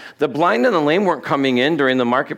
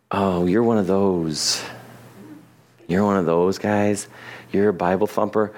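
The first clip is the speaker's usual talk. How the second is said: dismissive scoff; 5 semitones lower than usual. Retold or imitated. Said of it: "imitating a dismissive critic".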